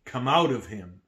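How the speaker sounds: loud firm order to leave; Jesus casting out the demon, stern and loud; stern command. Acted. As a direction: command it out with authority. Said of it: "said Jesus sternly".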